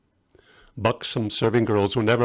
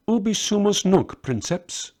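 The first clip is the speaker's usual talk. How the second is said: soldier speaking Latin; 9 semitones higher than usual. Acted.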